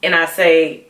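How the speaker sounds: ordinary talk, nothing marked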